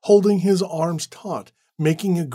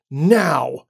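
yelled command; 5 dB louder than usual. Acted. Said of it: "he yelled".

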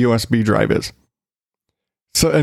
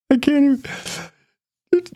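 laughing disbelief; 12 semitones higher, much slower than usual. Real, not acted. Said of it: "laughing disbelief".

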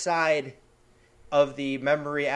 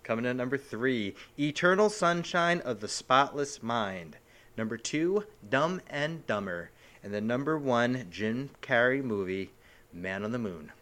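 dramatic announcer; 2 semitones lower than usual. Pretend. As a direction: announce each title like an awards show. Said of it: "Dramatically, please".

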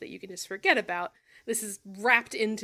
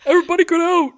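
shout; 7 semitones higher, 12 dB louder, much faster than usual. Pretend. Mock dismissing everyone.

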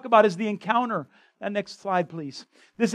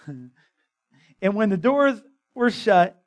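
slow, laughing through the verse again; chuckling as you repeat the line; laughing reread; much slower than usual. Real, not acted. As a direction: reread it slowly while laughing at yourself.

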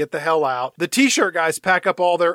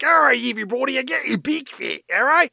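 higher, showman's announcing voice; grandstanding Thomas Lennon; 8 semitones higher than usual. Retold or imitated. Presenting the body bag to the town, lightly hammed showman. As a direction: play to the crowd like a huckster. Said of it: "and he's like".

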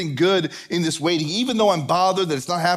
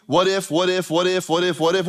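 rapid-fire repeated worry; mock freaking out. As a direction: spiral through the what-ifs without a break. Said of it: "We were freaking out about all the what ifs".

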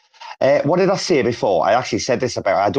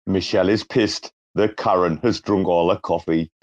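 Big Brother narrator voice, laughing; 4 semitones lower than usual. Retold or imitated. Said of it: "I was doing it in his voice".

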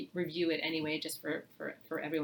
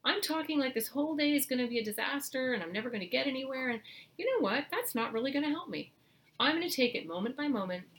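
higher, bright-toned reset pep talk; upbeat self-talk; 6 semitones higher than usual. Shown as a demonstration. Parent modelling calm self-talk to the children, upbeat and higher. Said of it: "model that for your kids".

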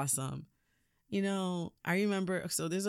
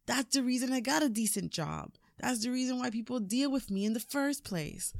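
son's complaint pitched higher, partly fast; resentful son; 6 semitones higher than usual. Retold or imitated. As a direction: rush the grievances in a raised voice. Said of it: "You know Rocky".

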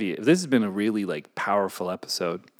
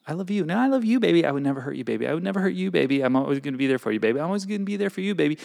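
mock lovey-dovey couple; 6 semitones higher, much faster than usual. Mocking a clingy couple.

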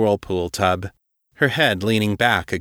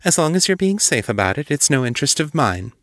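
curt; 6 semitones higher, faster than usual. Acted. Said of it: "Julia said shortly".

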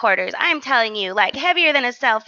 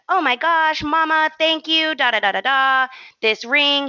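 grateful ring owner; 6 semitones higher than usual. Retold or imitated.

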